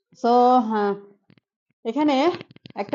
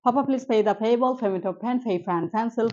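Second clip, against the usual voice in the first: ফাফা, প্লিজ run through at natural speed; normal speed practice; slower than usual. Shown as a demonstration. Teacher drilling the class at normal speed. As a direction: rattle it off as in normal talk. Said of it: "পরে আমরা এভাবে practice করব".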